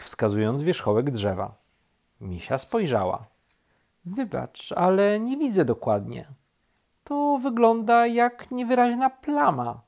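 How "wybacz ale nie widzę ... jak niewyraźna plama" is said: high-pitched, mild apologetic voice; high, unhurried bear squinting upward; bear character. A narrator's reading. Bear peers at treetop, high and apologetic. Bear's voice answers the rabbit.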